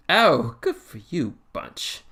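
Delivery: high, loud opening, then dropping away; lightly voiced jovial Doctor, slow and swooping; jovial but cautious. Doctor replies to captain's research boast, jovial yet cautious. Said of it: "though his tone was jovial".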